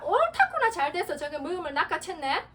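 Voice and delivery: sudden high, loud devil's crow of delight; gleeful devil. Acted. Preacher voicing the devil who pounces on hatred, high gloating cry. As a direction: gloat like the devil snatching his prey. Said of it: "미워하는 순간 마귀가".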